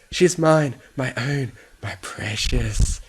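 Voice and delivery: slow, strange creeping my precious; cling to the bunny like a treasure; possessive clinging. Acted. Fluttershy clutches the bunny, slow and possessive.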